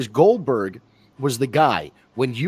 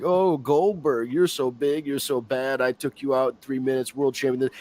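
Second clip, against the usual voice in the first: put-on Russian accent. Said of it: "He's gonna be like".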